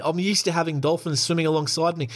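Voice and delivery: a second mock New Zealand take; a Kiwi accent that comes out Australian. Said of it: "That's the same as an Australian accent there".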